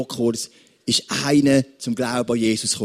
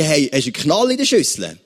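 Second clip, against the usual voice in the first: indignant outburst; 3 semitones higher than usual. Retold or imitated. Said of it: "Der Mann würde sagen".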